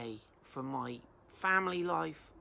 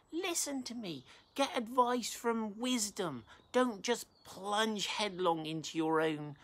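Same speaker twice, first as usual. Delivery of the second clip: wisdom as a woman pleading, pitched higher; preacher voicing wisdom pleading with passers-by, raised higher; wisdom crying out; 3 semitones higher than usual. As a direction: call out to the crowd in a lightly voiced higher plea. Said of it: "She's crying out, she's saying".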